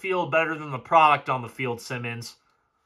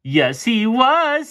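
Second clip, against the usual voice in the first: slow sarcastic answer; 7 semitones higher, 3 dB louder, much slower than usual. Real, not acted. Answering own rhetorical question.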